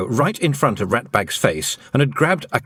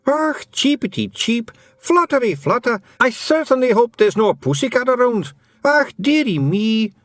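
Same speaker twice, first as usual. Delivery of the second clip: yelled feagle bird act; 13 semitones higher than usual. Acted. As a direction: shout the cheeps like a hammy fake bird. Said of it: "it yelled".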